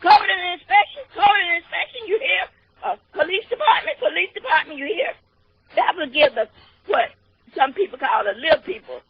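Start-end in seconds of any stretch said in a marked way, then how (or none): 0.0-5.1 calling out departments. Retold or imitated. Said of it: "like the other mayor say".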